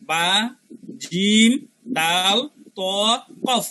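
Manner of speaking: বা, জিম, দাল, ত, কফ one at a time with pauses; letter-by-letter recital. Shown as a demonstration. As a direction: spell out বা, জিম, দাল, ত, কফ carefully, each separate. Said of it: "খলখলার হরফ পাঁচটা". (বা, জিম, দাল, ত, কফ থেমে থেমে স্পষ্ট উচ্চারণ)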